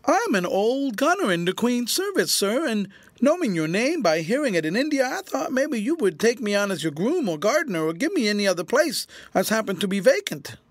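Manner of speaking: whining plea to the general for work. A narrator's reading. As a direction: beg humbly like a fawning old soldier. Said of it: "speaking in a whining voice".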